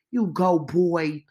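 slow, loud sitcom cheer; Martin and Gina voice. Pretend. Cheering the reporter on, in a loud sitcom cheer. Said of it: "in my Martin and Gina voice".

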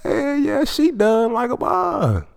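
ooh, caught off guard, way up high; squeaky shocked voice. Retold or imitated. Replaying his shocked reaction to ex's rejection, very high. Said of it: "I was like".

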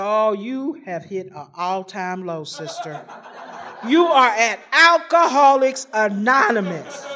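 slow, low, dry self-mockery; wry self-mockery. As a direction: drag it out, mocking yourself. Wry aside to herself.

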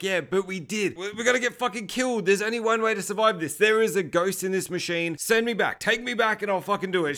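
urgent but understated acted panic; retold panicked screaming. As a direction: imitate a desperate man pleading. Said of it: "He's just screaming at us".

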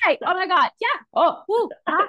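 squealing high and loud, yay and woo; giddy excitement. Retold or imitated. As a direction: let the joy burst out. Her brain about moving.

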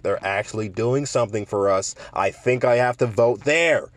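lightly voiced earnest white liberal; a hint of a white liberal, drawing out the last words; mildly put-on voice of a won-over liberal voter. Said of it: "that's like my white liberal voice".

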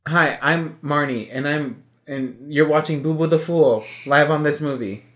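slow, mock host voice; mock introduction. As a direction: play a silly show host. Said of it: "I hope the camera's on".

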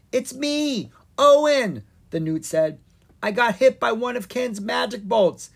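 tiny newt voice. Acted. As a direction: squeak like a little newt.

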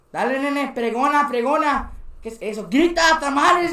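high, insistent voice of the señora; imitated urging boss. Señora pushing new boy to hawk tamales, imitated urging.

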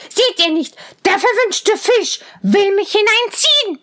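hohe, zänkische Zwergenstimme; zänkischer Zwerg. A narrator's reading. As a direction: giftig schimpfen wie ein Zwerg. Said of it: "schrie der Zwerg". (Zwerg beschimpft Rosenrot, hoch und zänkisch)

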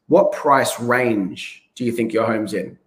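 a calm, easy question with weight on range; stress on range. Shown as a demonstration. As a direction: ask it slowly and press on the word range. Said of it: "Emphasizing the word range will get a better response".

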